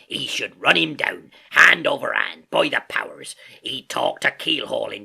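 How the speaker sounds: loud, drawn-out seafarer's outburst; Silver, quite excited. A narrator's reading. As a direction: jerk out the phrases with a great show of excitement. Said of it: "now quite excited".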